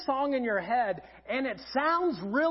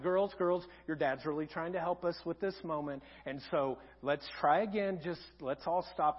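lower, softer retold plea; imitated calming mother; 7 semitones lower, 5 dB quieter than usual. Wife to the girls on dad's behalf, calming. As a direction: hush the girls gently, voice lowered.

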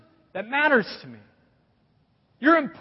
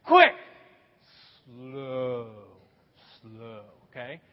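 preacher demonstrates a rhythm chant; quick high, slow low; 9 semitones lower, much slower than usual. Shown as a demonstration. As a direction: snap up on "quick", sink down on "slow". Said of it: "Do that with me".

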